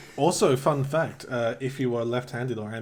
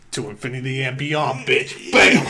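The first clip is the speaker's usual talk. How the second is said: Buzz Lightyear voice; 2 semitones higher, 6 dB louder, slower than usual. Retold or imitated. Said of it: "Buzz Lightyear coming over goes".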